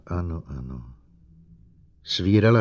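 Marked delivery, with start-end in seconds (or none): 0.1-0.9 soft, low hushed yes; dazed soft whisper of agreement. Acted. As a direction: breathe the words out softly. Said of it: "zašeptala".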